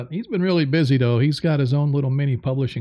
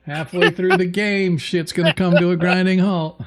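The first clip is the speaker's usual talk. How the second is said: ominous announcement; 2 semitones higher, 6 dB louder than usual. Pretend. Joking doom about the game stalling.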